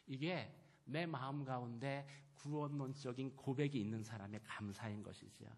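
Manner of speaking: ordinary talk, nothing marked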